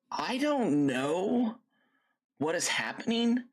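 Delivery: breathy puzzled whisper; whispered aside. Real, not acted. Streamer wondering to chat about the bug, whispering. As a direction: drop to a whisper, baffled.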